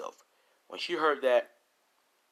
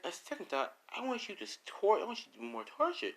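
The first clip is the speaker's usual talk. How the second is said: gleeful villain; 11 semitones higher, 4 dB quieter than usual. Acted. Villain changing his mind.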